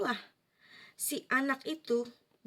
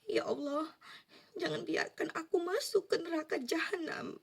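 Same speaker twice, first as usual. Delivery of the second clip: raised, pleading voice to God; pleading prayer; 4 semitones higher than usual. Retold or imitated. Begging God in a dream, pleading. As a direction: beg God not to be sent to hell. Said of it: "aku bilang".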